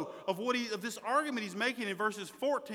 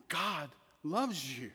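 flat and dull; 4 semitones lower, 6 dB quieter, slower than usual. Shown as a demonstration. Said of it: "emphasize those three words".

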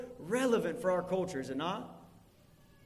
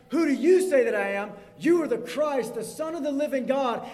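raised and louder, building excitement; excited; 4 semitones higher, 5 dB louder than usual. Acted. Preacher reliving Peter's confession with excitement. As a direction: let the moment burst out.

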